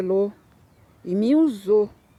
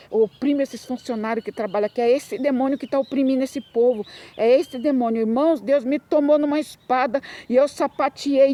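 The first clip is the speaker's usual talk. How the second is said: fervent preaching; 3 semitones higher than usual. Real, not acted. Testimony builds to fervent preaching.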